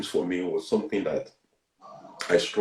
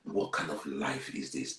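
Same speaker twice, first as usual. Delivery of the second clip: crying to himself; 7 semitones lower, 10 dB quieter, slower than usual. Retold or imitated. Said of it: "I'll be crying myself".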